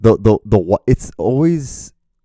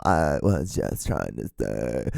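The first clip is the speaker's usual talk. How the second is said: lower, quieter, slow creaky voice; vocal fry; 8 semitones lower, 7 dB quieter, slower than usual. Retold or imitated. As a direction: drag the words out in vocal fry. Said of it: "talking like a vocal fry".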